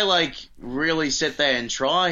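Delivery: lightly put-on British accent; accent slipping into British. Shown as a demonstration. Explaining the failed accent, slipping into British. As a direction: let the accent slide into British. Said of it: "it goes into British".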